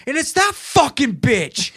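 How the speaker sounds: high, slow, venomous retold yell; angry outburst. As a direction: draw out the furious accusation, pitched high.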